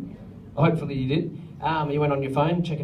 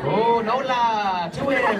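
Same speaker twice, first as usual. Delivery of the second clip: laughing; 4 semitones higher, 4 dB louder, slower than usual. Real, not acted. Class spells a word together.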